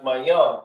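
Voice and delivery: "mayam" as mah-YAHM, slowly; pronounced "mayam". Shown as a demonstration. Teacher gives the word to repeat, sounding out "mayam". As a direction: model "mayam" slowly in two syllables.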